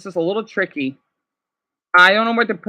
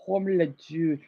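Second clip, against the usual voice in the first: quiet try; 4 semitones lower, 7 dB quieter than usual. Shown as a demonstration. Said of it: "how can I say juice".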